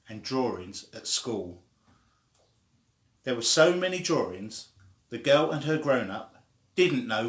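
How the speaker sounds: lively storybook read-aloud; animated children's book reading. Acted. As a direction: read it like bedtime story time for little ones.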